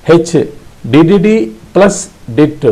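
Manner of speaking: did plus dit said slowly, beat by beat. Shown as a demonstration. Morse teacher slowly drilling the letter H. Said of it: "practice continuously".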